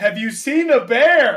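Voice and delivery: very loud, slowed-down, drawn-out screaming. Retelling a movie scene where a man screams at a deaf woman: imitating a man screaming. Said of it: "He's just, like, screaming at her".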